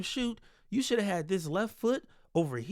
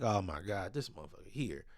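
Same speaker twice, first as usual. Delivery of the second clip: frustrated coaches; 11 semitones lower, 6 dB quieter than usual. Retold or imitated. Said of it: "all the coaches frustrated".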